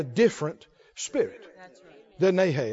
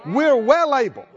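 confident Caleb; 2 semitones higher, 4 dB louder than usual. Retold or imitated. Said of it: "What Caleb say?".

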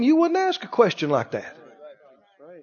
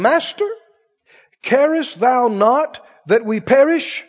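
mild pleading; 4 semitones higher than usual. Retold or imitated. Disciples' plea in the storm.

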